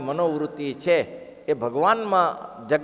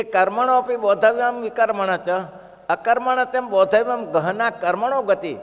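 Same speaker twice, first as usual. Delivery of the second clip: scripture recitation; 3 semitones higher, 3 dB louder than usual. Acted. Recites Sanskrit verse.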